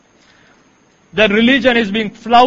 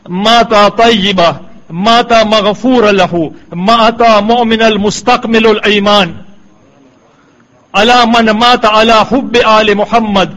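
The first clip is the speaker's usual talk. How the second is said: lightly intoned Arabic quotation; Arabic recitation. Acted. Lecturer quoting a tradition from Sunni books, measured Arabic recitation.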